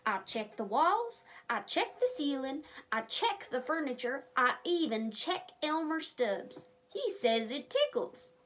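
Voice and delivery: lively, expressive storybook narration; reading to children. Acted. A reader telling kids the story of Deputy Dan, lively. Reads story aloud to viewers.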